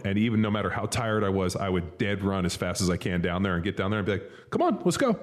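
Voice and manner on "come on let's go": taunting call-out. Retold or imitated. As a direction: call out the tired linemen. Taunting tired defensive linemen.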